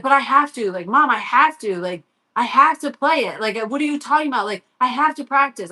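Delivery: insistent retold protest; frustrated. Son argues with mom that he must practice, frustrated. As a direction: lightly imitate a frustrated kid pleading. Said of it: "He's frustrated. He's annoyed".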